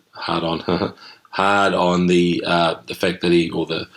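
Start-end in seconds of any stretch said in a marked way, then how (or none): 0.1-2.4 laughing. Real, not acted. Laughs at accidental double entendre.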